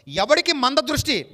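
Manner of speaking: booming slow quote; preached aloud. Acted. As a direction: proclaim it slowly to the crowd. Preacher quoting scripture.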